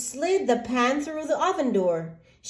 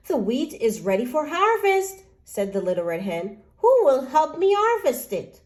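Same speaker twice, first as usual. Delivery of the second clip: little red hen asking; 4 semitones higher than usual. Acted. Hen asks again.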